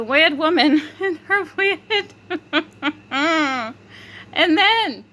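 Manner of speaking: high voice breaking into giggles; laughing while talking. Real, not acted. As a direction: struggle to tell it through laughter. Laughing while telling the story.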